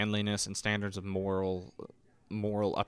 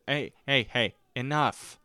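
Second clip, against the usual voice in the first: hollered; 4 semitones higher than usual. Retold or imitated. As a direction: call out over the crowd, a bit higher. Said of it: "hollered for everybody to".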